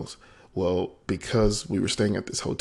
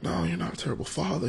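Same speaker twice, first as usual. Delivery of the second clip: higher-pitched, gently insistent reassurance; reassuring; 10 semitones higher, 3 dB quieter than usual. Retold or imitated. Friend comforts a father who feels terrible, reassuring. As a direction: contradict him kindly, with emotion in the voice. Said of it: "he's reassuring me".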